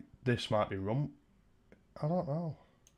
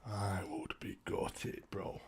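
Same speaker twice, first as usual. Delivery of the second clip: slow, breathy whisper; 8 dB quieter, much slower than usual. Shown as a demonstration. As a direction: drop it to a hushed whisper. Repeats line, now whispered.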